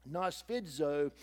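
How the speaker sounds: Nosfidzo, said slowly and carefully, syllable by syllable; Greek word. Shown as a demonstration. Preacher introducing an unusual Bible word, slow and careful. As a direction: spell out Nosfidzo slowly for the congregation. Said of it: "a unusual word in the Bible".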